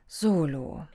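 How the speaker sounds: put-on gentle, calming tone used with children; coaxing a child to stay calm; soothing grown-up voice. A narrator's reading. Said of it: "begann sie mit einer Stimme".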